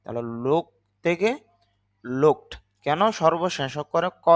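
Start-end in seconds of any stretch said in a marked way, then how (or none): 2.0-2.5 লুকড said with a final t sound, not d; looked with t ending. Shown as a demonstration. Teacher to students showing the t sound, clear demo. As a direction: end লুকড on a crisp t. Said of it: "ড না হয়ে তখন তার বাংলা উচ্চারণটা হবে ট".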